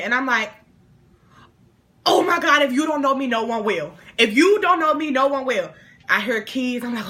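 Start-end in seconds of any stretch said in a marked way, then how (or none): 2.0-5.7 loud, higher start sinking each time; hammed-up despair; acted distress. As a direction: plead like it's a stoned catastrophe. Panicking stoned to best friend.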